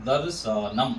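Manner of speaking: दर्शनम in three parts, "dar-sha-nam"; pronunciation demo. Shown as a demonstration. Teacher repeats दर्शनम for students, careful demo. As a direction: keep र tight before श in दर्शनम. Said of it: "ऐसे करके होगा".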